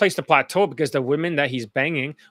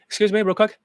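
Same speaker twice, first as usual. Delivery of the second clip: higher, lightly mocking timid asker; a touch of a timid stranger voice; mock POA accent; 4 semitones higher, faster than usual. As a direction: imitate a nervous guy stopping someone. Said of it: "they talk like this in front of me".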